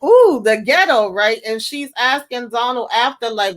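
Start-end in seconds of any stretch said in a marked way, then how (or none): 0.0-1.1 high-pitched put-on "ooh" of disapproval; hammed-up snooty dismay; mock disdain. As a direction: imitate a scandalized onlooker. Voicing disapproving look at guest.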